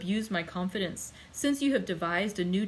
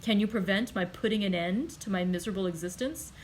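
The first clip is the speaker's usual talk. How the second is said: violent outburst. Acted. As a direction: lash out at the one holding you back. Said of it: "changing his expression of calmness for one of violence".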